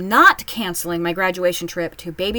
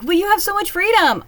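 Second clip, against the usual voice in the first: much higher, sing-song mock of a parent; mocking envious parent; 11 semitones higher, 5 dB louder than usual. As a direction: whine it like a jealous mom. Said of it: "they're like".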